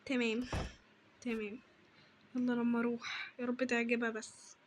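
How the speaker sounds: low, soft private murmur; muttering to oneself. Acted. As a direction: think aloud under your breath. Talking to herself, hoping she likes it.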